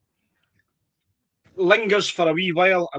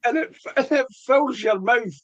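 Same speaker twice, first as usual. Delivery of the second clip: raised pitch, real excitement over the flavours; voice getting higher; 5 semitones higher than usual. Real, not acted. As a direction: gush about it with the voice climbing. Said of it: "my voice is getting higher and higher".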